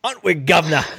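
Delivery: a clumsy British caricature, put on for laughs; awful mock British accent; bad British accent. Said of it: "your British Ajayi voice".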